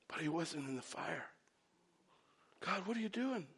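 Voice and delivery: sudden very soft drop; deflated hush. Acted. Preacher reveals God was not in the fire, hushed. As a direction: pull right back, almost under the breath.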